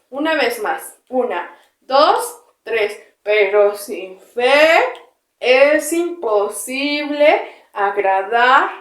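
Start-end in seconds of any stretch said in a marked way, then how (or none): 3.2-8.7 very slow, stretched verse; slow final recitation. Shown as a demonstration. Teacher leading the last round, very slow and stretched. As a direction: draw out each word for the last time. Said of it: "Yo y después ustedes".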